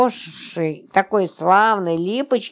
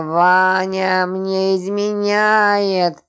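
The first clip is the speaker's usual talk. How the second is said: slow, long-drawn tearful wail; sorrowful howl; much slower than usual. Acted. Липочка confessing her husband's betrayal, howling with grief. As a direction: howl it out, stretching every vowel. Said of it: "Она горестно провыла".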